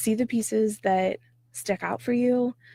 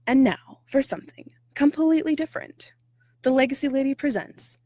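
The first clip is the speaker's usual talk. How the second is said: grand announcer voice, higher and louder; Monty Python announcer; 5 semitones higher, 3 dB louder than usual. Retold or imitated. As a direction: announce it like a TV presenter. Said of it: "I love this line from Monty Python".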